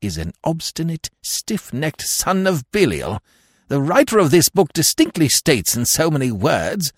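high-pitched bitter grumble. A narrator's reading. Lord denouncing McAllister over the book, bitterly. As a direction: complain bitterly, pitched well up. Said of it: "observed Lord Emsworth bitterly".

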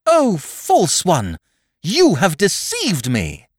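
slow, deliberate accusation; accusing. Acted. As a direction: point the finger with every word. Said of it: "pointed the finger of derision".

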